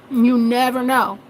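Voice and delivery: "You never know" said slowly, spaced out; slow and deliberate. Shown as a demonstration. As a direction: let it land slowly.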